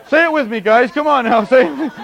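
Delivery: high, loud urging; rally the guys to chant along; mock rallying call. Preacher acting out a plea to chant along, urgent rallying.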